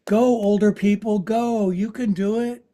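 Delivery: lightly voiced cheering twenty-year-olds; a touch of youthful cheerleading; cheering young viewers. Teacher imitating young viewers cheering on older students, mild cheer. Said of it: "the twenty-year-olds are watching this and going".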